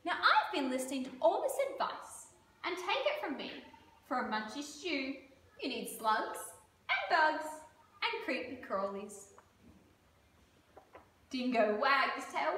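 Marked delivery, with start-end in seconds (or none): 0.0-9.3 echidna voice. Acted. Echidna advises.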